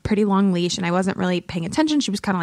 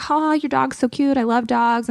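higher-pitched imitated gush; 5 semitones higher than usual. Imitating the hairstylist fussing over the dog, gushing. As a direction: coo over a cute dog, lightly acted.

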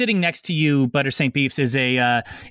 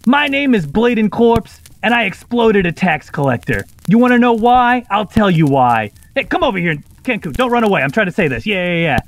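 kenku mimicry; 4 semitones higher, 6 dB louder than usual. Kenku bird replaying the gnome's threat to the court, loud and high. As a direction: squawk it back like a recording of a shouting gnome. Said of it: "opens its mouth one more time to say".

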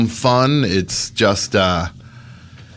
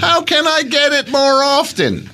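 neutered voice. Shown as a demonstration. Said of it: "Was that neutered enough for you?".

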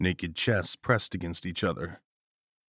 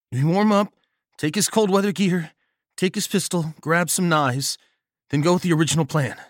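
Nagel's voice; 9 semitones higher, 5 dB louder than usual. A narrator's reading. Nagel lays out the plan.

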